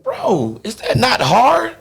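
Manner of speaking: high, laughing, incredulous "bro"; laughing disbelief. Retold or imitated. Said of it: "I was like".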